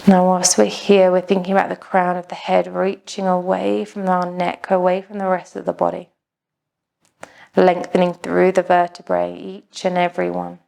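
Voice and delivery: even, unhurried meditation voice with long pauses; calm, measured yoga-teacher delivery; guided meditation. Acted. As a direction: guide a class gently into stillness, pausing between phrases.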